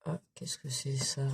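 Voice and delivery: chuchoté, doux et surpris; whisper. Real, not acted. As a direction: murmurer comme pour un petit animal. Aside to a baby animal. (chuchotement tendre)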